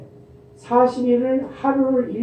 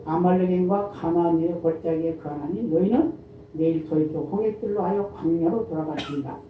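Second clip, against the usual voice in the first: a softer, measured Bible reading; scripture reading; 4 dB quieter than usual. Acted. Preacher reading Numbers aloud to the church, soft and measured. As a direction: read the verses aloud to the congregation.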